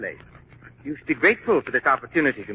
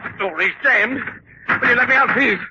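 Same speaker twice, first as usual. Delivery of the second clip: higher and louder with each plea; rising panic; 13 semitones higher, 5 dB louder than usual. Acted. Trapped villain begs at the jammed door, panicked. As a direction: beg frantically to be let out.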